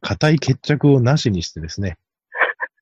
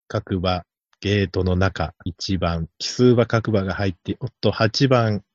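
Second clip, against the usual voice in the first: low, measured mock trackside commentary; subdued, deliberate race caller impression; stalling race announcer; 5 semitones lower than usual. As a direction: fill time like an announcer waiting at the gate. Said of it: "なんとか場をつなごうとする実況中継の人".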